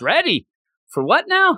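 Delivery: high, puzzled mumble; clueless reply. Retold or imitated. Mash answers the challenge, puzzled. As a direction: play it dumb, high.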